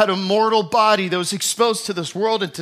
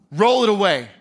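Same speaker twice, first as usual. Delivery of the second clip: commanding order. Acted. Jesus ordering the stone rolled away, firm. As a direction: order them to move the stone.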